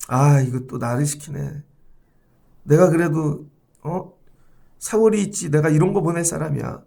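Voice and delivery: lightly hammed-up resentment at being ordered around; mock grumbling. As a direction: grumble to yourself like a put-upon employee. Voices a resentful subordinate grumbling.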